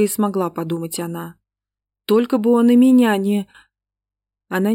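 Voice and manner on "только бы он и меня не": frightened thought. Acted. Terrified inner thought.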